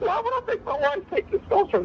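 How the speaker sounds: high squeaky voice. Answering an interviewer's question about testosterone: squeaky voice. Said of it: "He does it again".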